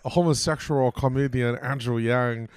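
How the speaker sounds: slow, drawn-out camp self-introduction; exaggerated gay voice. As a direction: ham up a gay comedian, stretching the names. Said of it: "here's my gay voice".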